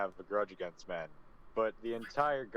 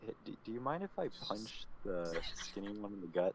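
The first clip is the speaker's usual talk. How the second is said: hushed whisper, quieter; 6 dB quieter than usual. In an actual-play game, a female guard leans in close to a player: whispered aside. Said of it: "You guys are immediately stopped by the guards. Halt. No Vo are allowed to enter the city. And she points at Tavanis and Mineta. / And she points at Tavanis and Mineta. / You guys are immediately stop".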